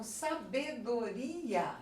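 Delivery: sabedoria with the RI drawn out; stress on RI. Shown as a demonstration. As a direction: lean on RI in sabedoria, letting the final a fall.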